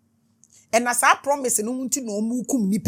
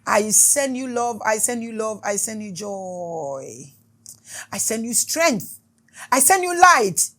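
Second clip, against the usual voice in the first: spiritual blessing. Acted. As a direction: bless each listener like a prayer.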